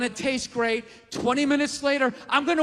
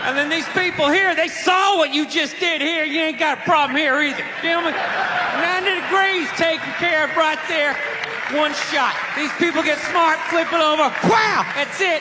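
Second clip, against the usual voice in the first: excited redneck shout; 3 semitones higher, 3 dB louder than usual. Acted. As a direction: yell it like a gun nut loving his spread. Gun clerk continues pitch.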